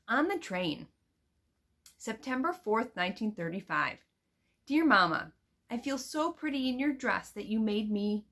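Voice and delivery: put-on expressive read-aloud of a girl's letter; reading aloud to children. Teacher reading a letter from the book to her students, expressive storybook voice.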